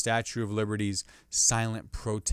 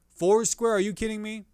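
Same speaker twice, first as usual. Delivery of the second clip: incredulous outburst; 9 semitones higher, 4 dB louder than usual. Real, not acted. Incredulous outburst about foursquare.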